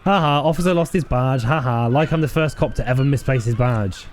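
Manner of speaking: mocking ha-ha, then a sneer; sarcastic laugh. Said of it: "laughs sarcastically".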